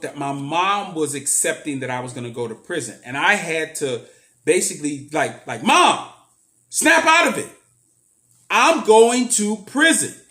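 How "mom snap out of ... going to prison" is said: loud, high, sharp snap; harsh outburst. Retold or imitated. Telling mom to snap out of it, loud high outburst. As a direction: jolt her out of denial with a loud cry. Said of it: "I didn't say it like that".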